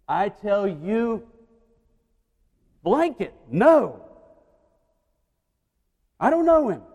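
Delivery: loud, high, desperate shout of denial; furious denial. Acted. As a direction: swear you never knew him, yelling. Peter's final angry denial.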